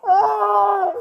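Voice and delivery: berserk rage. Real, not acted. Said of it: "Stop yelling".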